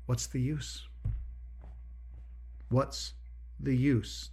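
voice of acedia. Acted. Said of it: "the question that acedia is constantly posing".

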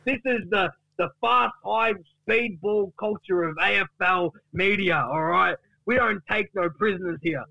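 high, outraged mock rant; indignant Duck. Duck snaps back at Gary's questioning, indignant rant. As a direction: leap up in pitch with indignation. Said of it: "And then Duck says".

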